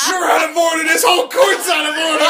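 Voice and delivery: mock courtroom outburst.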